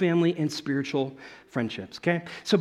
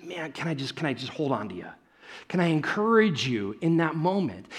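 tender comfort; 2 semitones lower, 4 dB quieter than usual. Retold or imitated. Friend comforting someone in tears.

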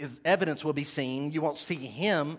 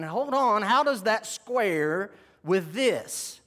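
puzzled objection; slower than usual. Acted. Preacher voices a doubting listener's thought, puzzled objection. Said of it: "some of you may be thinking".

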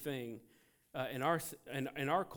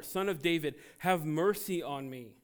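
louder shouted plea for mercy; 7 dB louder than usual. Retold or imitated. Blind man shouting past the rebuking crowd, louder plea. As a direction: call over the crowd. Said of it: "he shouted all the more".

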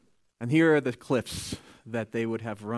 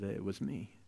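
timid confession; 4 semitones lower, 10 dB quieter, slower than usual. Acted. Frightened woman confesses.

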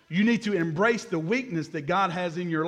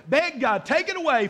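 higher, insistent plea; retold begging; 6 semitones higher than usual. Preacher retells Paul begging God again, higher pleading. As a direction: build the repeated plea higher. Paul's repeated begging, third time.

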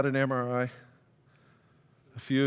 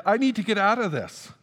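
high, hammed-up plea to escape; comic retelling of a panicked cry; acted panic; 7 semitones higher than usual. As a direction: plead urgently in a raised voice. Acts out his panic attack.

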